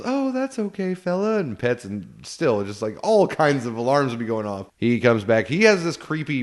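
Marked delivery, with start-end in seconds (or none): 0.0-1.4 mock cheerful. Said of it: "sees the dog and goes".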